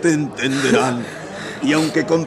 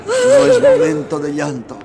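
tearful; 5 dB louder than usual. Acted. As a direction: voice cracking high through tears, then quicker. Père en pleurs avant l'exécution.

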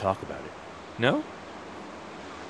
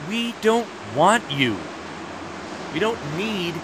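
haughty dismissal; 7 semitones higher than usual. Acted. Guard boasting to neighbour across wall.

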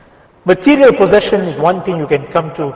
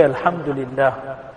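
quiet humble praise; 5 semitones lower, 9 dB quieter than usual. Shown as a demonstration. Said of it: "And then for you to say".

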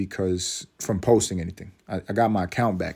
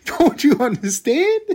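mock pleading; 6 dB louder than usual. Insisting his kid is special.

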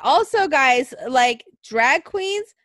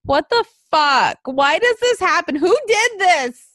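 louder, rising exasperated rant; real frustrated outburst; 4 semitones higher, 4 dB louder than usual. Real, not acted. Venting to her co-host about the cancelled show, angry and loud. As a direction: vent the anger, louder each time. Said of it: "I'm so pissed off".

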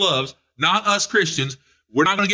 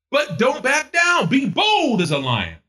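bold shout; 10 semitones higher, slower than usual. Acted. Preacher urging believers, bold shouted command.

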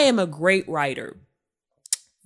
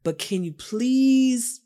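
earnest plea. Retold or imitated. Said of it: "I was like".

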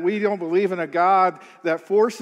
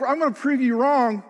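angry challenge; 6 semitones higher than usual. Retold or imitated. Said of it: "When we have an anger or, or an attitude".

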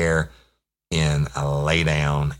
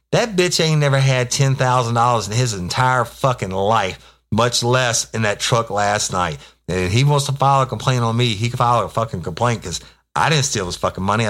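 higher, louder retelling of an angry rant; raised voice, mock outrage at a thief's claim; retold angry rant; 7 semitones higher, 4 dB louder than usual. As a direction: relive telling off your partner, heated but half-performed.

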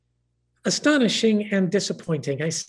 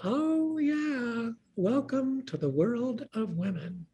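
wry friend; 7 semitones higher, 5 dB quieter, slower than usual. Retold or imitated. Friend Karen's wry reply.

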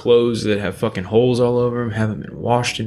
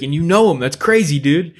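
excited fan; 6 semitones higher, 5 dB louder than usual. Retold or imitated. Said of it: "he's like".

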